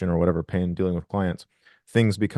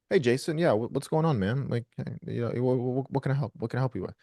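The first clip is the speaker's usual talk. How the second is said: higher, softer friendly phone voice; put-on pleasant phone greeting, higher and softer; anger switched off; 3 semitones higher, 4 dB quieter than usual. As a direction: answer the client sweetly as if nothing's wrong. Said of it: "you turn off all the anger".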